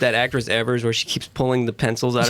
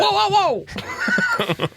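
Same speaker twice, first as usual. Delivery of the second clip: surprised. Real, not acted. Startled reaction to the impression.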